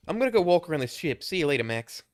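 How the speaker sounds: a breezy British goodbye; British accent. Acted. Player character tells Max he is off exploring, British accent. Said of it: "how I'm saying things in this British accent".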